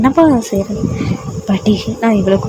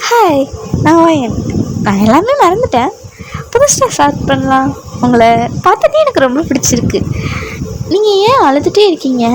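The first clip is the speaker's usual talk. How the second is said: lightly raised, bright-voiced girl; chirpy and innocent, a little higher; cheerful young heroine; 3 semitones higher than usual. The heroine greets her crying husband, innocently high and cheerful.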